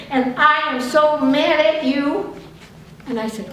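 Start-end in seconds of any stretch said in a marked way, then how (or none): 0.1-2.3 higher, louder, drawn-out accusation; changed angry voice. Retold or imitated. Friend's voice suddenly changes to accuse her, acted anger. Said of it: "she suddenly changed her v-, voice".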